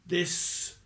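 soft, breathy held-back voice; odd voice. A narrator's reading. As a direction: swallow the anger, barely voiced. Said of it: "he said in an odd sort of voice".

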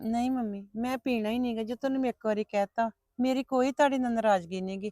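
subdued, hurt daughter; hurt refusal. Acted. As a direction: refuse quietly, wounded.

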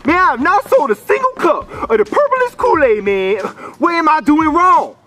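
high, frustrated griping; exasperated complaint. Acted. Seller who has not sold a single cup, exasperated.

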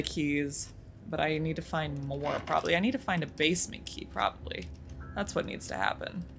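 hushed whisper to himself. Real, not acted. Player planning quietly while hiding, whispering. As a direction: whisper so the monster won't hear. Sneaking in a horror game.

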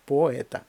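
Поета with о and е as two sounds; separate vowels. Shown as a demonstration. Teacher shows two separate sounds, no diphthong. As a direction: keep о and е apart in Поета. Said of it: "відчувається два окремих звука".

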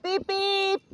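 high, loud sing-song hello; excited greeting. Real, not acted. Calling out to a friend passing by, high and excited.

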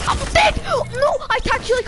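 yelling. Real, not acted. Just got killed in game.

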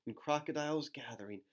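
lilting storybook read-aloud; reading to children. Acted. Reading a rhyming book to children, lilting. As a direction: read the rhyme to little ones.

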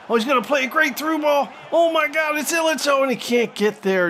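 high-pitched burst of excitement; excited play-by-play. Real, not acted. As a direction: call the chance as it breaks open. Through ball chance in live commentary.

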